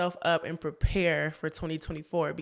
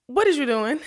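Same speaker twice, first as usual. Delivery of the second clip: incredulous; 3 semitones higher, 4 dB louder than usual. Retold or imitated. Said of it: "I was watching it back like".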